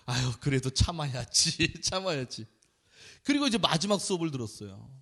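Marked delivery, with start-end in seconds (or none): 0.1-2.4 self-soothing. Retold or imitated. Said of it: "올리려고 막 그러다가".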